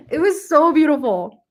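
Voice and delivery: rising, voice catching with real feeling; getting emotional. Real, not acted. Telling viewers about a beloved book, choked up and moved. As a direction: hold back tears as the words come out. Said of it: "I'm getting emotional".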